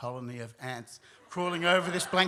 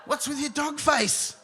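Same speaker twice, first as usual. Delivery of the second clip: loud, high, drawn-out demand; panicked shouting; 10 semitones higher, 6 dB louder, slower than usual. Retold or imitated. Storyteller confronting dad about his dog face, panicked shout. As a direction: shout it slowly in alarm.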